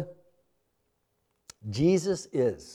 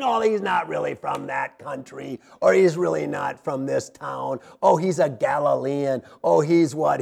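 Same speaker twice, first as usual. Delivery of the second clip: whiny complainers; 2 semitones lower than usual. Retold or imitated. Pastor mimicking a grumbling crowd, mock whiny. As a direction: sneer it like a grumbling doubter. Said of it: "Just sit back and whine and complain".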